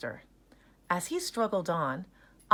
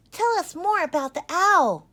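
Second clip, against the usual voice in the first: high, loud pleading; eager cry; 12 semitones higher, 10 dB louder than usual. Acted. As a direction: beg for more of the story. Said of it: "cried Sheba".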